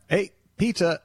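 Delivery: high bright sing-song call at the door; pizza guy calling out. Acted. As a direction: announce the pizza like a cheery delivery man. Pizza guy returns next day.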